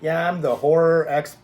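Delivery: "horror" pushed high and loud; stress on HORROR. Retold or imitated. Introducing himself to an actor, stressing "horror". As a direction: lean hard on the word "horror". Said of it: "I like how you emphasize the word horror".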